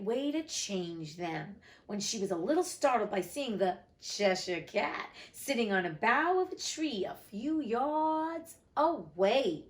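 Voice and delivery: animated storybook reading with lively pitch swings; story narration. A narrator's reading. Narrator telling listeners of Alice meeting the Cheshire Cat, story narration. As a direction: read it aloud, drawing out key words. Reads story aloud to audience.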